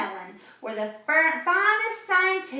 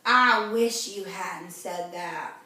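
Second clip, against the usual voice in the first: groaning; 7 semitones lower, slower than usual. Acted. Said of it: "Camilla groaned".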